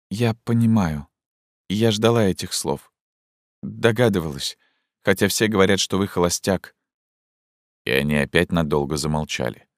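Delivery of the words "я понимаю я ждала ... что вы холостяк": put-on agitated young woman. Zhenya confronts Fyodor Ivanovich about the order, urgently. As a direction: voice raised higher, urgent and pleading.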